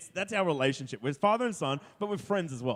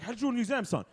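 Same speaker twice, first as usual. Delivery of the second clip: put-on Asian accent; 4 semitones higher, 6 dB quieter, much faster than usual. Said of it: "In an Asian accent".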